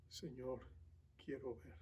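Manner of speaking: very soft, low, almost hushed request; hushed, reverent plea; humble plea. Acted. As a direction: plead quietly, barely voiced, with pauses. Blind man's humble answer to Jesus.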